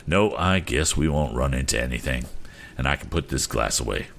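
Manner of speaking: lightly voiced captain, reasoning calmly; a hint of an easygoing sea captain; consoling captain.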